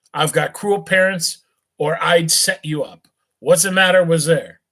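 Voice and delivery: put-on jolly drunk rich boy, loose and cheerful; tipsy young gent. Rich drunk youth chats with a beggar, tipsy and friendly.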